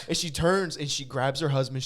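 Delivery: ordinary delivery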